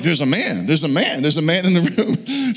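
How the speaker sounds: voiced, sing-out mimicry of wife's warning; hammed-up panicked echo; mocking echo. Mocks her warning back at her.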